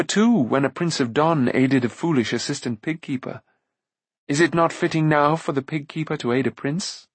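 lightly voiced Taren, lifting in pitch as he argues; a touch of fervour in a character voice; earnest young hero. Taren telling Gwydion why he helped the prince, lightly voiced fervour.

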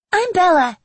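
very high tiny fairy voice; squeaky fairy. Acted. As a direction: pitch it way up, tiny and cute. Fairy Bella introduces herself.

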